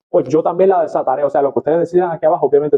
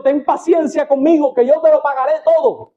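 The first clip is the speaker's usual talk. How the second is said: begging debtor; 11 semitones higher than usual. Acted. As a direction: beg on your knees for time. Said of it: "le rogaba, diciendo".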